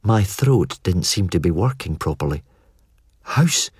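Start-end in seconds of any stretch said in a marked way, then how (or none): 3.2-3.7 gulping. Acted. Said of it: "I managed to say, gulping".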